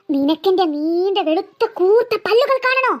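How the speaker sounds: spooky, stretched-out threat; menacing ghost. Acted. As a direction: draw it out like a fanged spirit. Ghost threatens to show her fangs.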